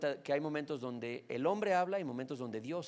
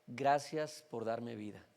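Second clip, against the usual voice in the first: quiet prayer; 4 semitones lower, slower than usual. Pretend. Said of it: "y decir".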